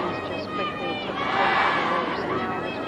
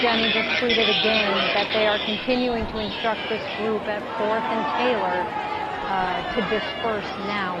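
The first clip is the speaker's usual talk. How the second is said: raised voice; 5 dB louder than usual. Real, not acted. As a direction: push the voice over the crowd. Anchor speaks over crowd noise.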